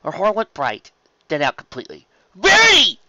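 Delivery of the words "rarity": loud, very high cry of her name; alarmed exclamation. A narrator's reading. Spike freezing as Rarity is hurt, alarmed exclamation. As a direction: call out in sudden fright. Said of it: "Spike exclaimed".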